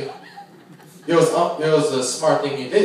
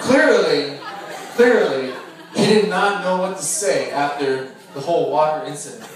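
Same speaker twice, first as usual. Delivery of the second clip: laughing; 2 semitones higher, 5 dB louder than usual. Real, not acted. Teasing wedding toast, laughing.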